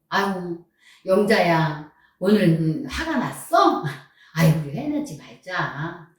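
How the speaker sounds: gently calm yourself down, as a demonstration; mildly coaxing self-talk, unhurried; self-soothing. Pretend. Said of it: "내 마음을 한번 다스려봐요".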